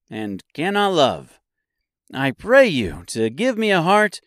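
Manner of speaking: high, swooping earnest voice; pleading Tin Woodman. A narrator's reading. Woodman begging Oz for a heart, earnest and high. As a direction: plead brightly, pitched well up.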